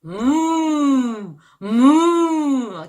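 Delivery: long drawn-out lowing moo; cow moo. Shown as a demonstration. Teacher demonstrating a cow sound for children, slow moo. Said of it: "저 엄청 많이 했던 것 같아요".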